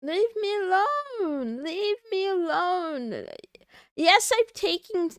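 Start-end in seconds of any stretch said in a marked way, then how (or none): 0.0-1.6 mock yell. Repeats mock outburst. 1.6-3.3 mock yell. Repeats mock outburst.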